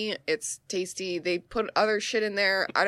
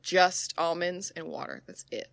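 serious; 2 semitones lower than usual. Retold or imitated. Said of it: "she said this so seriously".

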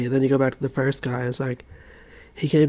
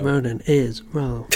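slow, flat machine voice; robot voice; slower than usual. Pretend. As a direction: announce it like a robot. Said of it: "putting in a robot voice".

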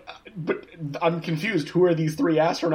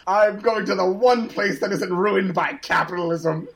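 bad Russian accent; 4 semitones higher than usual. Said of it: "he does it all with a terrible Russian accent".

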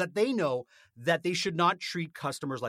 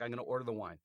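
hesitant, unsure quote; 5 semitones lower, 8 dB quieter, much faster than usual. Retold or imitated. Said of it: "apprehensive when it comes to wine".

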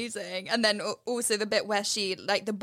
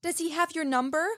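sassy comeback; 4 semitones higher than usual. Retold or imitated. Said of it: "iconic comeback line".

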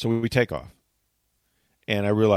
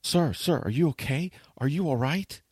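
higher, worried agent's voice; concerned gate agent; 5 semitones higher than usual. Retold or imitated. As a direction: check on a sweaty passenger. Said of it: "And they go".

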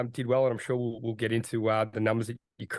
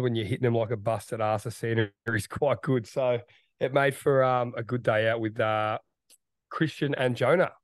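hoarse, croaky throat; rough croaky voice after a big week. Real, not acted. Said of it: "croaky voice there, Rat".

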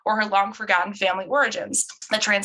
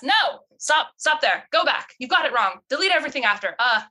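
exasperated, higher voice in a bad accent; her put-on accent; 4 semitones higher than usual. The speaker correcting her phone's mistake, exasperated, in a put-on accent. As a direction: correct the assistant in a hammed-up accent. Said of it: "That accent is the worst".

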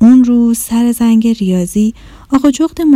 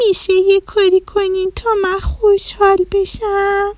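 tearful; 9 semitones higher than usual. Acted. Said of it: "با گریه گفت".

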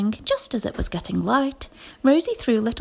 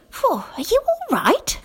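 high, carrying call; 12 semitones higher than usual. A narrator's reading. Rosie calling over the wall to Nicobobanus, anxious. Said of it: "called Rosie".

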